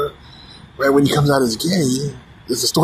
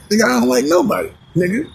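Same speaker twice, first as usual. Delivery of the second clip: Charleston White reply; 11 semitones higher, faster than usual. Retold or imitated.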